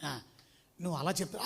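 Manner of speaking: preacher quietly confronting a pastor in private; quiet aside. Retold or imitated. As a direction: say it gently, just between the two of you. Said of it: "పిలిచి మెల్లిగా చెప్పాను".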